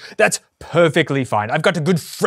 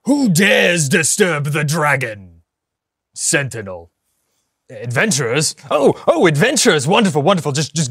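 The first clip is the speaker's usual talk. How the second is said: lightly voiced ancient boss challenging intruders; Dragon Sentinel. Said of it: "the prize lord, Dragon Sentinel".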